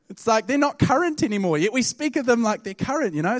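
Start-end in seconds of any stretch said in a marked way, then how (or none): none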